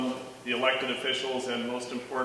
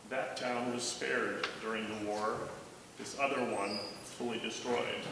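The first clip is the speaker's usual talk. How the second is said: softly spoken guide; 6 dB quieter than usual. A narrator's reading. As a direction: lightly voice a guide talking softly. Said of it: "the guide speaks softly and begins".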